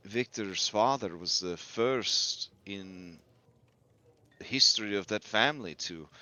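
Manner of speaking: lightly voiced, measured game character; Muriel. Answering whether Victor's family were ancient enemies, measured character voice. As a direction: correct them with care, in character. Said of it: "she says, uh".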